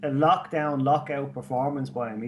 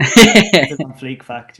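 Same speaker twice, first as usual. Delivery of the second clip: slow, booming announcer call; loud announcement; 14 dB louder, slower than usual. Pretend. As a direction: proclaim it like a show segment. Announcing the segment loudly.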